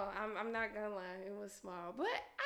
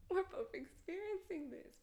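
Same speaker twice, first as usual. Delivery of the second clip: whisper; 5 semitones higher, 7 dB quieter than usual. Retold or imitated. Retelling intimate moment, whispered.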